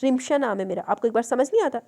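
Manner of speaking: a flash of temper; correcting her name sharply; irritated snap. Acted. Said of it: "तो वो भड़क उठी".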